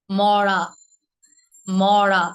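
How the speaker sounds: "মরা" with a heavy curled-tongue flap on the r; pressed retroflex r. Shown as a demonstration. Teacher contrasting the heavy r word, pressed. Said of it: "গাঢ় করে প্রেশারটা দিয়ে".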